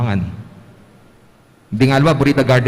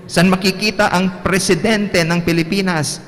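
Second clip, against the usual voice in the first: higher quizzing teacher voice; teacher's question; 6 semitones higher than usual. Pretend. Teacher quizzing the class, higher voice. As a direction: ask the class brightly like a teacher.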